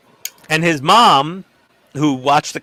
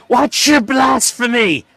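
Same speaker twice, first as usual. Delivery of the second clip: put-on much higher, slow scandalized old lady; Waterboy mother voice; 11 semitones higher, 5 dB louder, slower than usual. Friend's grandma scolding the host for swearing, hammed-up old lady. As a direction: draw it out like a shocked church grandma. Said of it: "like the mother from Waterboy".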